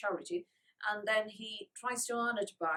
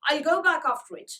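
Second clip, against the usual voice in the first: eager offer; 6 semitones higher, 10 dB louder than usual. Acted. Boy eager to fetch the box.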